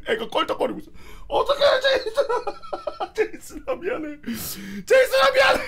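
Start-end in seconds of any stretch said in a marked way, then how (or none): 1.3-5.6 high, laughing mock wail. Boy wailing at his bandaged penis, laughing mock cry. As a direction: wail in comic despair. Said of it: "이러면서 으아".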